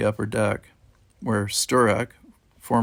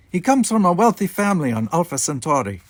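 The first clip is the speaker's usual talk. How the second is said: put-on Russian accent; 7 semitones higher, 5 dB louder than usual. A narrator's reading. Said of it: "His thick Russian accent".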